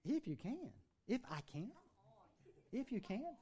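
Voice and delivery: quiet, weighed repetition of "If you can"; incredulous echo. Retold or imitated. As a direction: hand the words "If you can" back in disbelief. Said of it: "Jesus answered him".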